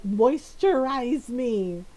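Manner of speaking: lightly voiced, drawn-out demand; Cassandra. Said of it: "she was always like".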